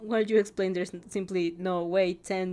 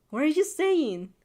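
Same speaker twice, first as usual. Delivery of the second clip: higher, louder, drawn-out scolding; indignant interruption; 7 semitones higher, 5 dB louder, slower than usual. A narrator's reading. Friend interrupts self-doubt, acted indignation. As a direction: cut in like an angry mother. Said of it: "She interrupts you immediately, frowning like an angry mother".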